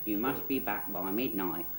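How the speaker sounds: low, softly put-on Australian twang. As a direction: deliver the warning in mock Australian accent. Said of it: "in his Australian sort of twang".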